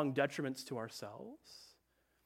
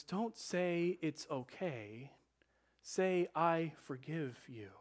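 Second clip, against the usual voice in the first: slow, softer motherly correction; gentle correcting mom; 4 dB quieter, much slower than usual. Retold or imitated. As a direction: ease the child toward the right words, slowly. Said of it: "my mom would say in those moments".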